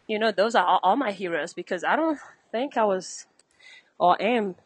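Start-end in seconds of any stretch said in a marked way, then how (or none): 1.5-4.6 slightly out of breath. Real, not acted. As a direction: talk between short breaths. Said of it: "I'm a little out of breath".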